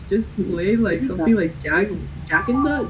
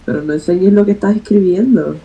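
Spanish with a Puerto Rican accent; faster than usual. Real, not acted. Telling a player not to show the writing, Puerto Rican accent. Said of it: "where's that accent from".

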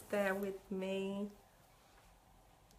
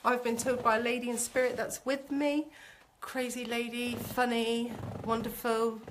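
lightly put-on formal greeting; a hint of mock-formal address. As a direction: playfully announce it, slightly hammed-up. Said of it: "said to put this on".

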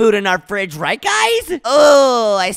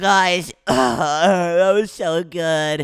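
slow, lower, contented; satisfied sigh; 3 semitones lower, much slower than usual. Acted. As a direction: sink back blissfully full. After stuffing himself with cake.

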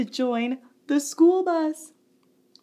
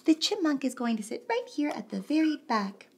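whispering; 6 dB quieter, much faster than usual. Acted. Secret aside to kids.

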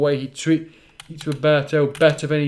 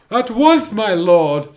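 high, loud eager henchman; 5 semitones higher, 6 dB louder, slower than usual. Acted. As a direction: snap to attention for your master. Servant villain answers emperor.

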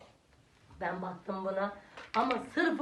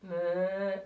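cow moo; 3 semitones lower than usual. Shown as a demonstration. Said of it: "Ne diyor inek?".

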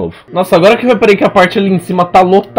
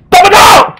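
high sudden yell of defeat; despairing shout; 7 dB louder than usual. Real, not acted. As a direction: shriek as it all goes wrong. Dies right after boasting.

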